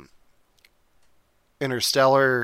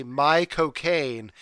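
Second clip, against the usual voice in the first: slow, drawn-out mock British vowels on "my cocaine"; British accent; much slower than usual. Shown as a demonstration. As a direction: stretch "my cocaine" like a Brit. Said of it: "in a British accent".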